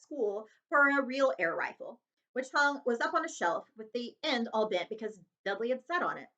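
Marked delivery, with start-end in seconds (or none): none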